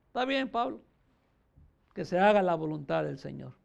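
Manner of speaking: soft, subdued giving in; acted quiet surrender; resigned acceptance. Disciples give up persuading Paul.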